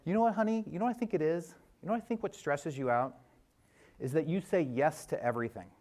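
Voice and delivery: a hint of Maria's knowing, affectionate tone; quoting his wife with a knowing lift; imitating his wife. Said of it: "when Maria talks like this".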